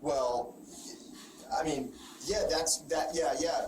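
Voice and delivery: halting mock hedging with pauses; imitated evasive stalling. Detective mimics the suspect dodging questions, hesitant. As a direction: imitate someone stumbling for an answer. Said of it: "your tone immediately changes".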